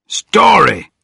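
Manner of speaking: high loud cry. Acted. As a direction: call it out eagerly. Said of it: "cried the editor".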